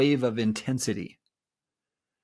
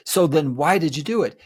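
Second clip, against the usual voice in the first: demanding; 5 dB louder than usual. Pretend. Voicing angry partner.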